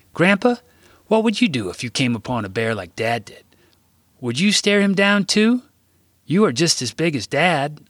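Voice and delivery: put-on high child voice calling to grandpa; eager little boy asking; curious boy.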